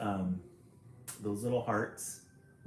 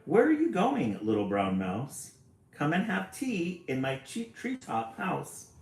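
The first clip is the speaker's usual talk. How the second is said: high hooting owl; 5 semitones higher than usual. Acted. Owl voice in story.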